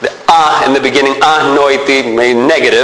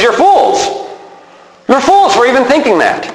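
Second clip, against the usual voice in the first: higher, forceful scolding of fools; scolding rebuke; 8 semitones higher than usual. Acted. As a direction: scold them as Paul would. Paul rebuking the Galatians.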